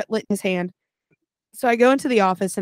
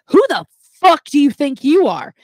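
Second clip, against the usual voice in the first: louder, higher retold challenge; retelling the drunk in her face, louder; mock angry drunk; 5 semitones higher, 6 dB louder than usual.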